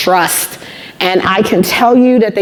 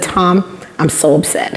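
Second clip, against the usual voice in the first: upset on the phone; 2 semitones lower, 3 dB quieter than usual. Retold or imitated. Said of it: "He could hear my voice was shaking".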